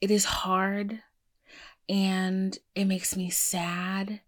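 quiet, choked-up pep talk to yourself in the mirror; emotional self-talk. Real, not acted. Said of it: "why am I getting emotional?".

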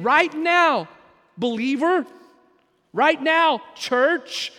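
loud, high, urgent preacher's call; Paul's command shouted to the church. Acted. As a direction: hammer it home at full voice.

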